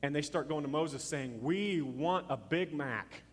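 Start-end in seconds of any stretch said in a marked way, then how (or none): 1.4-3.2 slow, drawn-out mock demand; mock complaining demand. Israelites complaining to Moses about food, mock demanding. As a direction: draw it out like a crowd's complaint.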